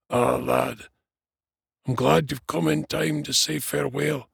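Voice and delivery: put-on high, feeble old dwarf voice; weak dying dwarf. A narrator's reading. Dying dwarf to his young friend, weak farewell. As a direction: speak weakly, as from a deathbed. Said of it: "said the dwarf weakly".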